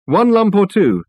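slow, high call from the kitchen. A narrator's reading. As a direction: call it out slowly. Reg calls from the kitchen.

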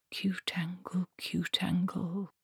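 soft whisper to herself. Acted. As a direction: whisper the name under your breath. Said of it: "she said softly".

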